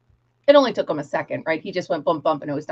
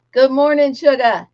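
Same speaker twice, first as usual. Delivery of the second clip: a bright sing-song hello, higher and louder; cheery greeting; 5 semitones higher, 6 dB louder than usual. Retold or imitated. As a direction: greet the child with a big loud cheer.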